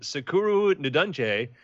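slow, careful "Sekuru Ndunje" syllable by syllable; sounding out the healer's name; careful pronunciation. Shown as a demonstration. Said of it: "this is how I pronounce it".

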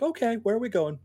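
high, meek cat voice; docile cat. Retold or imitated. The cat calmly asking the trainer, high meek voice. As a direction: voice the suddenly tame cat. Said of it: "the cat was just like".

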